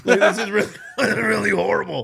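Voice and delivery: high, loud, laughing through the words. Real, not acted. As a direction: crack up while playing miserable. Laughing through his acted misery.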